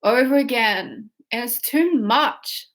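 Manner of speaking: slow, drawn-out whine; mock whiny lament. Shown as a demonstration. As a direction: drag out the complaint. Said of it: "Say it like that".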